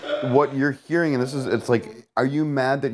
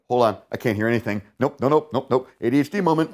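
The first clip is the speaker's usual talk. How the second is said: overwhelmed protest; 4 semitones higher than usual. Shown as a demonstration. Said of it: "this is when you go like".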